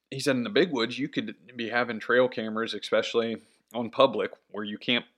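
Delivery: talking through hiccups. Real, not acted. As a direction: speak while hiccuping lightly. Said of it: "excuse me, I got the hiccups".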